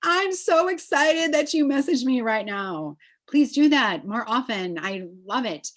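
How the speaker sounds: beam with excitement at the message; excited reply. Retold or imitated. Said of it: "I'm like".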